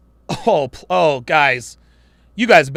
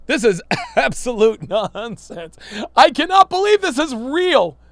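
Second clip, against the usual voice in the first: laughing disbelief; 3 semitones higher than usual. Real, not acted.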